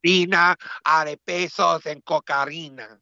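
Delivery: mock Latino accent; put-on Colombian accent. Co-host describing cocaine-paved America, in a mock Colombian accent. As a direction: spin a tale in a Colombian accent. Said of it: "We sound extra Colombian now".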